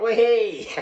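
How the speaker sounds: high, loud joyful squeal; gleeful whoop. Retold or imitated. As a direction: whoop it out like a kid on a ride. Waking from coma, elated.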